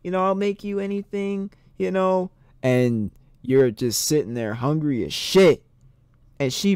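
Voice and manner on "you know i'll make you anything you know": higher-pitched mock hostess voice; imagined hostess. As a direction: play an eager host, pitched up. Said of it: "She's like".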